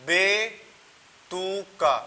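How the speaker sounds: बेतुका stretched very slowly, each syllable held; slow drawn-out word. Shown as a demonstration. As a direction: draw out बेतुका syllable by syllable for the class. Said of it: "जैसे मैंने एक word बोला".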